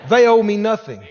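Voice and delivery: loud, firm declaration. Shown as a demonstration. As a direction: declare it out loud for the congregation to repeat. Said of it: "Everybody said out loud".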